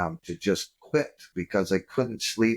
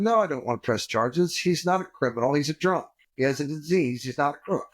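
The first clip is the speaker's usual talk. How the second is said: earnest; 5 semitones higher than usual. Retold or imitated. Defending the drunk driver.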